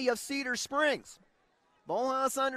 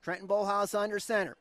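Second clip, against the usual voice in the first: play-by-play; 2 semitones lower than usual. Acted. Radio play-by-play.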